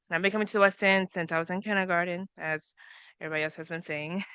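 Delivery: nervously rushing the words; hurrying through the speech. Real, not acted. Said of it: "speaking a little fast".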